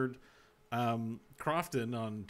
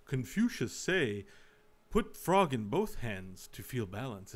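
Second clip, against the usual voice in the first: mock Chinese accent; 3 semitones lower, 3 dB quieter, slower than usual. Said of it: "It's an accent".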